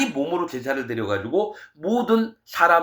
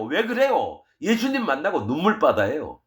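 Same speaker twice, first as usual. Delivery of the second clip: ordinary delivery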